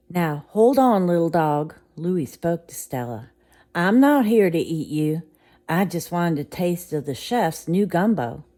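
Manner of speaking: calm the little dog; gentle big alligator. Acted. Alligator reassuring the frightened dog, loud and soothing.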